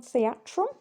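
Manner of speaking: theatron said the Greek way; Greek word. Shown as a demonstration. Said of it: "So number one".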